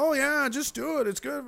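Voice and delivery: high, airy mock reassurance; mock breezy doctor. Doctor dismissing patients' worries, mock breezy voice. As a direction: brush it off like a careless doctor. Mocking a careless doctor's advice.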